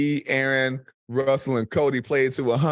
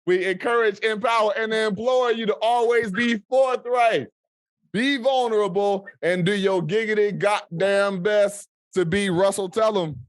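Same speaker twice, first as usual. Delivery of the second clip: raised, grand closing speech, half in jest; mock solemn proclamation; 4 semitones higher than usual. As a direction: pronounce it like a mission statement to listeners.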